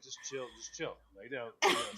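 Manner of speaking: imitated calming owner; soothing a dog. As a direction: settle an agitated pet down. Retelling how he soothes the dog.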